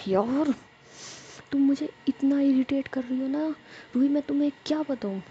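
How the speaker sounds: irritated outburst. A narrator's reading. Jiya tells Ruhi off, irritated and rushed. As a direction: vent your irritation at a clingy friend.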